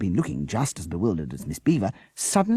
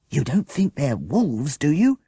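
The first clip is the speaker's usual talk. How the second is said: alarmed cry; 9 semitones higher, 5 dB louder, slower than usual. A narrator's reading. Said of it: "cried Jessica".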